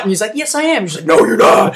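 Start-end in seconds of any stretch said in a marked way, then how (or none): 0.4-0.9 higher-pitched mock protest; acted stubborn comeback; defiant retort. Man argues back at the devil. 1.1-1.7 low, loud mock demon voice; put-on low possessed voice; devil voice. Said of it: "the devil voice comes in".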